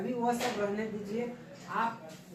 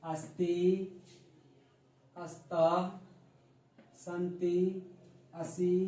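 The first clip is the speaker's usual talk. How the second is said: clear, measured chanting of each pronoun for pupils to repeat; recitation drill. Shown as a demonstration. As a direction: spell out every word slowly like a teacher leading the class. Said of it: "चलिए, अब मेरे पीछे बोलिए".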